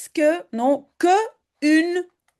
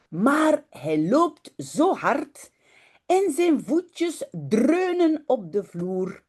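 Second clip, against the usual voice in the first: voix de conteuse posée, pour enfants; lecture d'histoire; 4 semitones lower, slower than usual. Acted. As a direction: raconte doucement à la classe. Lit une histoire néerlandaise. (lecture d'histoire pour enfants)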